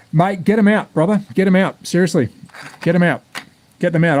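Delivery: urging. Real, not acted. Urging viewer to dig out chips.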